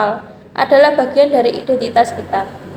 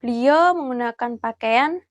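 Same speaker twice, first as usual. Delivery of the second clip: hushed, careful vlog voice; nervous night vlog whisper; 6 dB quieter, slower than usual. Real, not acted. Hushed talk inside the grave.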